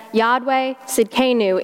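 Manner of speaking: South Carolina accent. Shown as a demonstration. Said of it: "with my South Carolina accent".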